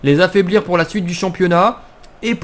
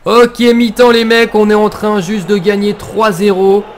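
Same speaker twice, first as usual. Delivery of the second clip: excited; 3 semitones higher, 5 dB louder than usual. Real, not acted. Halftime cheer.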